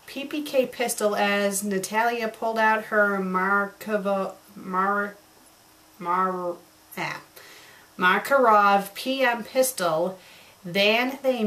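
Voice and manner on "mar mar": ordinary talk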